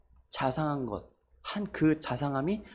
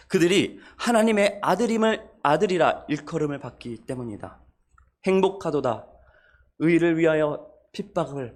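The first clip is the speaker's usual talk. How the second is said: solemn scripture proclamation. Acted. Preacher proclaims the Beatitudes anew to the congregation, solemn and ringing. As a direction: declare every blessing like a herald.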